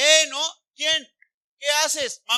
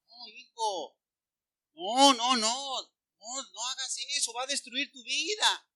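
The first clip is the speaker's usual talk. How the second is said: pleading parent; 5 dB quieter than usual. Acted. Parent to drinking son, pleading. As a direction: gently beg a child to stop. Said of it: "¿Qué decimos?".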